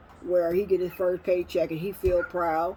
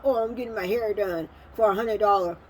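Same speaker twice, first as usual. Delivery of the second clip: mock bragging; 3 semitones higher than usual. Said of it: "They brag about".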